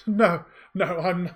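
woman scoffing, lightly amused, not dismissive. Acted. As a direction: brush it off as a joke. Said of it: "openly scoffs at this".

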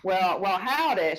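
lightly played Southern howdy; Southern accent. Shown as a demonstration. Host showing guest what to do, Southern accent. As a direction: greet like a Southerner. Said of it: "do a Southern accent".

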